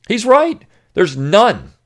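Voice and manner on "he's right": emphatic agreement. Real, not acted. Emphatic agreement after reading.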